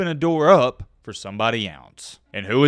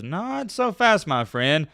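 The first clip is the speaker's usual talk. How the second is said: high, slow, drawn-out catchphrase, lightly voiced; a light nod to the TV analyst's signature line; Lee Corso catchphrase; 5 semitones higher, much slower than usual. Vlogger borrowing the analyst's catchphrase, slow and lightly voiced. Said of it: "like Lee Corso says".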